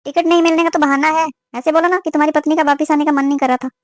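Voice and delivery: reproachful, disbelieving accusation; mildly angry. Acted. Mother rejects her son's ticket excuse, mildly angry. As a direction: dismiss the excuse crossly. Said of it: "आप गुस्से में क्यों हो?".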